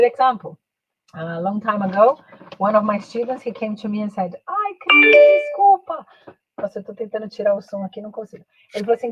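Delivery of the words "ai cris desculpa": high, loud pleading apology; hammed-up whine of an excuse; mock apologetic student. Student apologizing to the teacher, hammed-up pleading.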